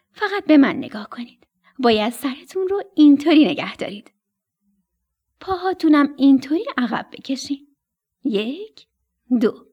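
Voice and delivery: a hint of a bossy mother bird showing how; mother stork. Mother stork teaching her chicks to sit, lightly voiced.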